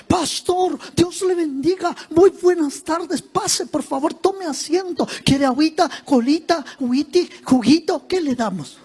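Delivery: lightly voiced overly polite hostess; sweet church sister. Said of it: "¿cómo me atenderán?".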